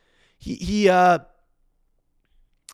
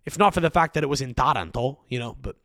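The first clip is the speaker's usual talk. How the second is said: normal talking voice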